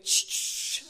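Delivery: whispered shh with a laugh; mock hush. Preacher hushing a dull listener, whispered with a laugh. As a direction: shush them playfully.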